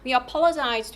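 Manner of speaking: "We apologize" with "apologize" punched; stress on APOLOGIZE. Shown as a demonstration. Teacher models the airport apology, stress on "apologize". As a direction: lean on the verb "apologize". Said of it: "사과하다라는 동사의 강세고요".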